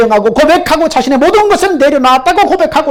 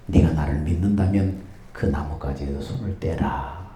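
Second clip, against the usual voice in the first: voice of God; 10 dB quieter than usual. Acted. God repeats the command.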